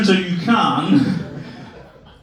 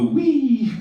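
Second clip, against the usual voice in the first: imitated wee; 8 semitones higher than usual. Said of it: "every time we go left, you go".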